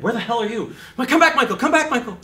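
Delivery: high, loud mock panic calling Michael back; panicked high plea. Actor panicking, calling his own character back, high and loud. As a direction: whine it like you've lost him. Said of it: "And then you go".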